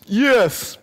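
a loud high eager yes; proud high yes; eager child yes. Retold or imitated. Child answering teacher eagerly.

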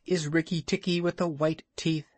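a hint of a high proud bird; lightly voiced bird Darzee. A narrator's reading. Darzee praising Rikki's teeth, lightly chirpy. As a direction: lift the praise a little.

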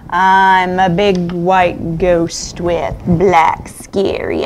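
slow spooky storyteller voice; spooky ghost voice. Pretend. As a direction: draw it out slow and eerie. Spooky ghost poem for children.

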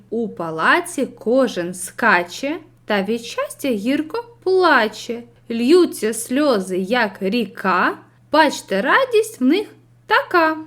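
slow, rhythmic verse reading, rising at the end; poem recital. Acted. Teacher reading a fairy-tale poem to pupils, slow and rhythmic. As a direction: recite the lines with measured rhythm. Reads poem excerpt aloud.

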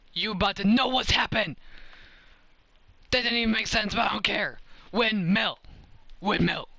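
loud, high-pitched boasting shout; fired-up gamer calling his move; hyped trash talk. Real, not acted. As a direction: yell it with pumped-up bravado. Hyped trash talk before windmill.

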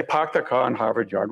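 lightly imitated Boston accent; a touch of Boston on "park their car"; mildly mimicked native Bostonian accent. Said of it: "Weird accent".

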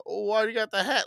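lightly mocking a clueless older man; imitating the stranger's baffled question; mock creepy stranger.

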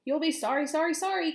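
high goose call; calling out a warning. A narrator's reading. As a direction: call it out as a threat, pitch climbing. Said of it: "called the goose".

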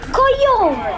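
high-pitched exasperated name-calling; heated insult. Real, not acted. Gamer insults the enemy mid-fight, heated insult.

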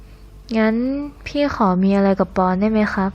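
soft, slow, close to the ear; whispered. Acted. Leaning close to Pon's ear, soft slow murmur. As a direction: lean in and breathe it slowly and softly. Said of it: "กระซิบที่ข้างหูผม".

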